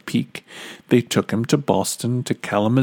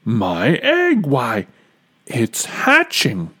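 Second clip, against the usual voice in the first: excited. Acted. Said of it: "shouted Horton".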